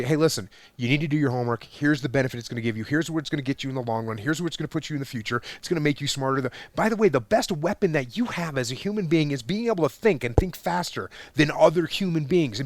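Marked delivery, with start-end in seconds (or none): 0.0-6.4 fast, reasonable parent explaining; patient explaining. Retold or imitated. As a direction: talk the kid through it, fast and friendly. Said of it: "You say".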